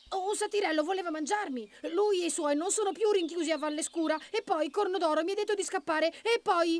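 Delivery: high, urgent little rabbit; excited high-voiced young hero; agitated rabbit. A narrator's reading. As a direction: blurt out the alarm, pitched well up. Rabbit blurts out his news.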